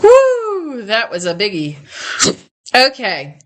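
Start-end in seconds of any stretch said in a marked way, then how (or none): 0.0-0.8 high, loud relieved exclamation; relieved whoo. Real, not acted. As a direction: blow out a big woo. Relief after a big sneeze.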